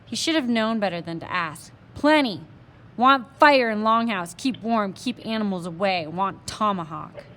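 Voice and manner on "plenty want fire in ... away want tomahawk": a lightly voiced proud Indian chief, demanding; lightly voiced, terse and commanding; a hint of a stern warrior making demands; Little Bear.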